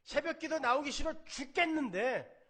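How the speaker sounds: loud, high fervent sermon; impassioned preaching. Acted. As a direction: drive the point home to the congregation. Preaching at full force. (회중에게 힘주어 외치는 열정적인 설교)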